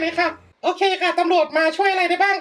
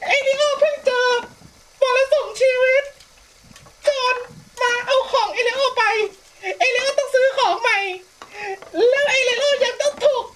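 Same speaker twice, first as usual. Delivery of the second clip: high, half-laughing fake crying complaint; hammed-up teary whine, much higher; mock whining sob; 6 semitones higher than usual. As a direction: whimper it out like a wronged child, laughing through it. Player whining over Sim's misfortune.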